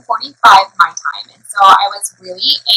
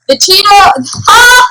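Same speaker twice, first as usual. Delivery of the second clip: high, loud laughing yelp; obnoxious outburst; 9 semitones higher, 4 dB louder, much slower than usual. Real, not acted. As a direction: blurt it out high, breaking into a loud "ah". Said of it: "that was so obnoxious".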